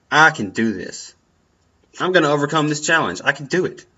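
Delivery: firm pep talk, overcome part rushed fast; authoritative tone. Shown as a demonstration. Pumping himself up before a speech, authoritatively. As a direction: command yourself to win. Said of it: "You say it with an authoritative tone".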